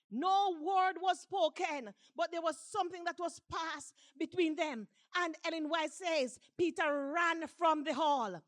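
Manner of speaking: emphatic preacher telling the story; mounting pulpit fervor; building sermon narration. Acted. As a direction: drive the story toward its climax.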